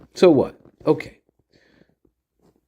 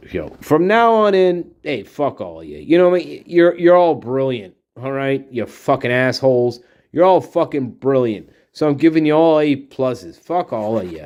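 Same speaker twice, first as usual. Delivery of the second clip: fed-up teacher. Acted. Acted fed-up teacher telling off students.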